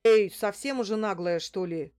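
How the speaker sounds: loud burst of mild indignation; indignant. A narrator's reading. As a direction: protest at the cheek of it. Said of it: "возмутился он". (возмущённо)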